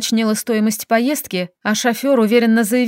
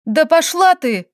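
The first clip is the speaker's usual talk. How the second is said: breathed out; 5 semitones higher, slower than usual. Acted. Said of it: "выдохнула я".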